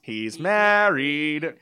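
slow sing-song warning; drawn-out reminder. Retold or imitated. Annette reminding flirting Joan as he drives away, sing-song. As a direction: stretch it out as a teasing warning. Friend's retold warning as he leaves.

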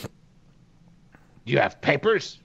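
slow, doubting guard voice; suspicious orc guard. Acted. Orc guard questioning the disguised riders, slow and suspicious. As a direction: drag out the doubt like a wary sentry. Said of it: "orc guard".

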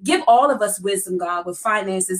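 earnest preaching prayer voice. Acted. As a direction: pray it with steady conviction. Leads a prayer.

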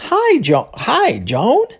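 high "Hi", then a questioning rise on the name; exclaiming and asking. Acted. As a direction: greet her, half exclamation, half question. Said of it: "exclamando e perguntando ao mesmo tempo".

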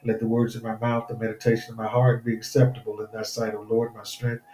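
earnest preacher's prayer. Acted. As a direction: pray fervently over the people. Leads a prayer.

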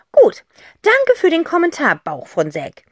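whispered mock-polite thanks; mock formal. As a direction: thank the tummy deadpan. Aunt answers tummy noise. (gespielt höflich geflüstert)

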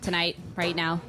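low, halting pretend-drunk voice; badly faked drunk. The speaker explaining her useless day to friends, badly faked drunk. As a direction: grope for each phrase, faking drunkenness. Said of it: "are you pretending to be drunk".

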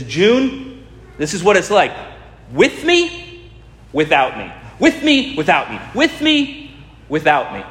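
swooping way up on each "me", dropping on each "without"; hammed-up movie hero, squeaking high on "With me"; overacting Tom Cruise. Preacher mimics Tom Cruise showing June with me, without me, high squeaks on "me". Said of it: "in his overacting".

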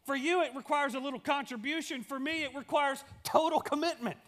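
a comic pig answering the hen. Retold or imitated. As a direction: play the pig as the punchline. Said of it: "The pig goes".

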